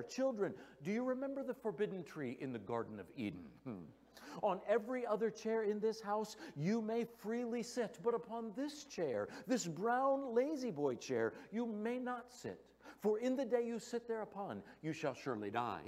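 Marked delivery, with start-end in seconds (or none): 4.4-15.8 higher, solemn King James style proclamation; hammed-up holy commandment about a chair; mock biblical decree.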